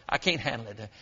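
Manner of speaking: dropped low and soft; hushed admission. Retold or imitated. Preacher echoes David's plea to the congregation, hushed. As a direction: let the voice fall away in defeat. Drops after the cry.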